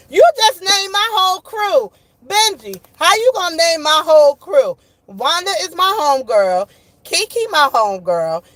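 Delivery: high, loud mock protest; playful outrage. Real, not acted. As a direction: protest laughingly at a friend.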